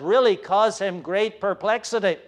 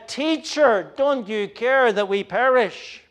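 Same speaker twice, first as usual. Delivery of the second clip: higher, louder desperate question; frightened cry; 5 semitones higher, 4 dB louder than usual. Acted. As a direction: cry out over the storm. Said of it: "the cry of the disciples".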